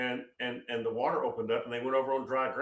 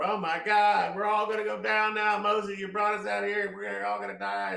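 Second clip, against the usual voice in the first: high, loud mock panic; freaking out; 10 semitones higher, 5 dB louder than usual. Israelites crying to Moses at the Red Sea, hammed-up panic. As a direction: wail it like a hysterical crowd. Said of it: "all the people are freaking out".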